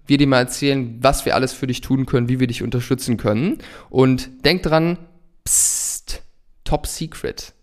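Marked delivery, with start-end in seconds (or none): 5.4-7.5 whispering. Acted. Recalls the top secret whisper.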